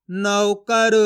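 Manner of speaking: नौकर in slow, level, evenly drawn syllables; blended syllables. Shown as a demonstration. Teacher blending the letters for learners, slow and deliberate. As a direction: join the sounds slowly, full au in नौ. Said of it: "इस तरीके से एक ही अक्षर का उच्चारण".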